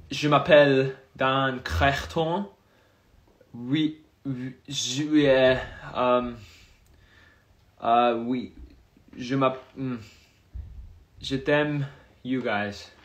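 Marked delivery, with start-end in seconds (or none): 0.1-11.9 English-accented French. Shown as a demonstration. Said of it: "Speak French".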